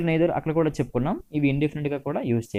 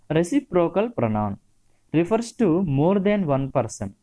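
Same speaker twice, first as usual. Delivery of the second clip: slow reading; 4 semitones higher, much slower than usual. Shown as a demonstration. Teacher reading definition.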